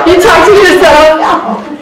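laughing, high, drawn-out question; amused teasing. Real, not acted. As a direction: stretch out the question through a laugh.

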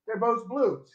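a confused brain that hears no difference; student's brain shrugging. Retold or imitated. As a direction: toss it off high and careless. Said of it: "the student's brain goes".

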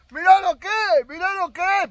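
loud, high excited yell of a fisherman; imitated shout. Fisherman shouting over a hooked fish, loud imitated yell. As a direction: bellow it like a show-off angler with a fish hooked. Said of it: "Perdonen los gritos".

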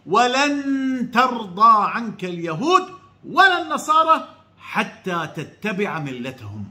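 slow, drawn-out recitation, falling at the end; Quran recitation. Acted. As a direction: recite the verse slowly and solemnly. Quotes a Quran verse.

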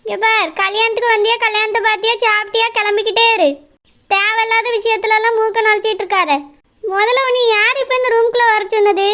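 mildly irritated scolding; irritated snapping. Acted. Friend sending a nosy guest out, irritated. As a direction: tell off an unwelcome guest, testily. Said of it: "எதுக்கு பிள்ளை இப்படி எரிஞ்சு எரிஞ்சு".

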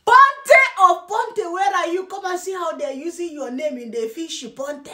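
lightly hammed-up summons; mock calling out. Mockingly calling Ponte to come and see, mock hail.

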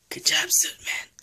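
"Good job, Suit Man" whispered very high and squeaky; squeaky praise. Acted. The player praises Suit Man again in a very high squeaky whisper. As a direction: pitch it way up like a delighted squeak.

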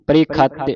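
ਪ੍ਰੀਖਤ said as preekhat, with an aspirated kh; careful pronunciation. Shown as a demonstration. Teacher shows the kh sound of ਪ੍ਰੀਖਤ. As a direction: breathe out on the kh in ਪ੍ਰੀਖਤ. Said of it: "ਇਹਨੇ ਐੜਾ ਬਣ ਜਾਣਾ ਹੈ".

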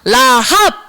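라합 said slowly, syllable by syllable, low; slow model pronunciation. Shown as a demonstration. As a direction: stretch out 라합 for children to repeat. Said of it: "따라해볼까요?". (라합을 천천히 또박또박)

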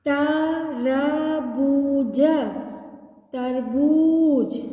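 syllable by syllable, then blended; sounding out words. Shown as a demonstration. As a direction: sound out each syllable slowly. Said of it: "लंबा खींचना है".

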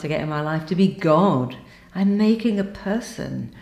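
amazed realization. Retold or imitated. Client recalls pregnancy to meditation teacher, amazed realization. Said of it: "One of my clients said".

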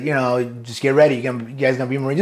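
offhand, casual retelling of an instructor; imitating a laid-back, unbothered instructor; nonchalant instructor. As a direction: shrug the words off nonchalantly. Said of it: "Just, like, nonchalant".

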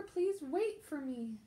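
Please wait for me called out slow to the bear; called refrain. A narrator's reading. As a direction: call after the bear, drawn out and loud. Refrain read aloud, full voice.

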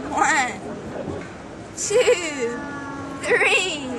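bright showman clown voice; kids party magician. Pretend. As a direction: play the children's party magician.

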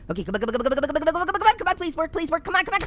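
urgent repeated come on; pleading with a machine. Real, not acted. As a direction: beg it to work, under your breath. Urging the game to work.

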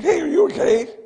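father calling to daughter in the back seat, anxious call. Retold or imitated.

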